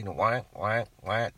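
duck call honks. Shown as a demonstration. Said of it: "just some soft quack".

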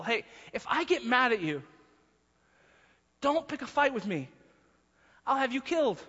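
a hint of a stern king, mock threat; Solomon warning. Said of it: "as if Solomon is, is warning his people".

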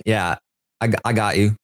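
halting attempt at a Cockney accent. Shown as a demonstration. Host trying the accent for guest, hesitant Cockney. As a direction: have a tentative go at Cockney. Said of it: "a little bit more Cockney".

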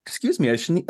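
right after a sneeze; sneezing. Real, not acted. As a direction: voice caught by a sneeze. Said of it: "I sneezed".

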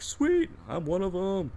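high, drawn-out happy cheer; gleeful exclamation. Retold or imitated. Raffle winner recalling the moment, gleeful. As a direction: re-enact a delighted little win.

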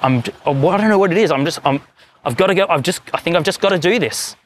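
a man pushed to do something crazy, pleading with God, voice rising; anguished inner voice. Retold or imitated. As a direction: pitch climbing high, torn and pleading. Man wrestling with God's strange call.

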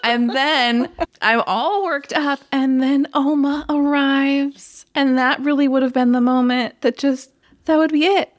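tearing up while recounting the scene; near tears. Real, not acted. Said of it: "I am".

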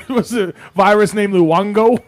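laughing through the question, slow; can barely keep it together. Real, not acted.

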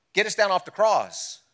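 high, loud mocking yell from the cross; railing thief. Thief on the cross railing at Christ, loud high yell. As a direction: jeer up at him like the dying thief. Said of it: "he's yelling and screaming".

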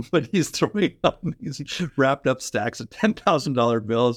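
laughter bubbling into the words; laughing while telling. Real, not acted. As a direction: tell it through a laugh. Laughing as he tells the prank.

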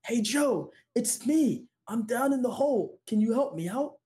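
high, mock call up from a hole; retold shout. Man in a hole calling up to a passerby, high mock shout. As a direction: call up for help, half-acted. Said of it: "the guy in the hole shouts up".

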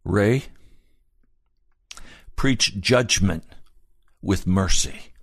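slow, grave charge with pauses; retold mentor's earnest warning; utmost seriousness. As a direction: solemnly hand down a charge, word by word. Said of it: "with utmost seriousness, he said to me".

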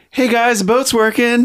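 high, chirpy mock airhead; singsong, oblivious girl call; blissfully clueless Rose. Rose waving to friends in danger, clueless chirp. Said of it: "just like that tone".

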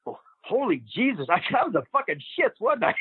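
amused mock realization, rising high; Emile Dupre. Old wrestler recalling his early work, mock sheepish. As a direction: imitate a sheepish admission, climbing in pitch. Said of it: "He goes".

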